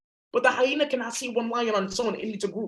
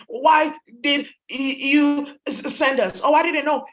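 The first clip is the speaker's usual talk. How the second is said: halting, louder protest of innocence; acted protest; 4 semitones higher, 5 dB louder, slower than usual. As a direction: stammer it out, pitched up at the end. Acted quote of the defeated hyenas.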